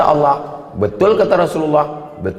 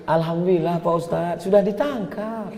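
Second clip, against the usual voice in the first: lightly acted wife, higher and softer; relieved wife; 4 semitones higher, 5 dB quieter than usual. Wife tells the ustadz her husband was caught, mock-meek relief. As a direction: play a grateful wife reporting back, softening toward the end.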